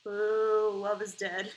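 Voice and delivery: loud booing at the screen; heckling boo. Acted. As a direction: boo the ending.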